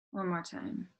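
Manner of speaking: measured guided-meditation delivery with pauses. Acted. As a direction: lead them gently into the breathing.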